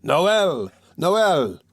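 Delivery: high, ringing cheers; the people cheering the play; crowd cheer. A narrator's reading. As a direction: cheer as the whole hall. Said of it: "shouted the people".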